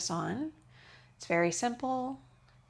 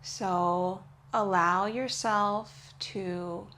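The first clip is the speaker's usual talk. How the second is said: restorative yoga guidance. Real, not acted. Yoga teacher easing students into the pose, calm guidance. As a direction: guide them into rest, unhurried.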